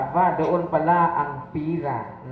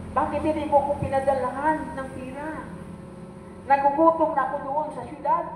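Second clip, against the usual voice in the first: a son whining in anger at his father, pitched up; angry son; 8 semitones higher than usual. Retold or imitated. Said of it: "Galit na galit ang anak".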